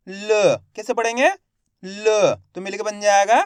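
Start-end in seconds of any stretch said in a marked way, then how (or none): 0.1-0.6 "ल" as a brief neutral "luh"; half-pronounced letter. Shown as a demonstration. Teacher sounding out the last letter for learners, half-pronounced. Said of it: "वहाँ पे अपन आधा उच्चारण करेंगे". 1.8-2.3 "ल" as a brief neutral "luh"; half-pronounced letter. Shown as a demonstration. Teacher sounding out the last letter for learners, half-pronounced. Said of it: "वहाँ पे अपन आधा उच्चारण करेंगे".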